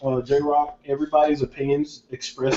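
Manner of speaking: talking through a mouthful; words round a bite of food; mouth full. Real, not acted. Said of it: "surprised you can talk right now with your mouth full".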